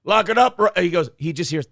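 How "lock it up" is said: loud command; shouted order. Pretend. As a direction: yell it like an action hero. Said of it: "I wanna see the new Rat Czar go".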